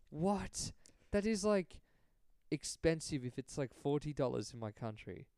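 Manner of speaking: retold Colombian woman, accent badly attempted; imitated Colombian accent. Host retelling a Colombian woman's shock at drug prices, attempted Colombian accent. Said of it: "trying to do her accent".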